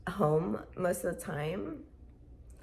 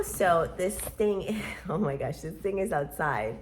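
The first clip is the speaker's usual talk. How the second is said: laughing aside. Real, not acted. Laughing at the cold weather.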